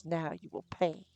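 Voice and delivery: slow, sneering threat. A narrator's reading. Shadow image threatening the wizard, slow and sneering. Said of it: "a sneer to his voice".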